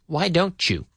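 "don't you" run together as "don-chu"; blended "Why don't you"; linked words. Shown as a demonstration. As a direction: link the t of "don't" into "you" with a ch sound. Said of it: "We link it together".

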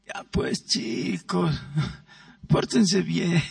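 imitating a timid mother, whispered and soft with a laugh; half-laughing mock of a mother begging weakly; meek pleading mom. Preacher mimicking a mother who feebly begs her kids to behave. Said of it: "¿Han oído cómo es?".

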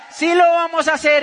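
high, loud insistence; acted quarrel. Wife insists to her reluctant husband, high and loud. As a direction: fire back an emphatic Sí.

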